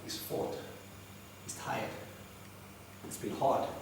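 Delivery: hushed whisper. A narrator's reading. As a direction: breathe it like a spent fighter. Hushed narration of tired fighter.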